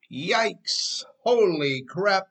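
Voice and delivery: jolted, as if the brakes just flashed; startled exclamation. Pretend. Driver seeing brake lights ahead, startled. Sudden near-collision in the story.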